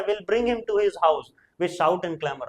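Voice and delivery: slow, measured Shakespeare reading; slow recitation. Shown as a demonstration. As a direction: read the line out slowly. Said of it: "first citizen बोलता है".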